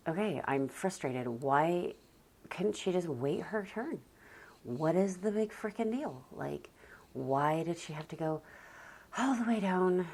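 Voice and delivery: demonstrating a frustrated mom's thoughts, rising exasperation; frustrated inner monologue. Shown as a demonstration. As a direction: vent like a fed-up mom in your head. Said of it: "show you what I'm doing in my head".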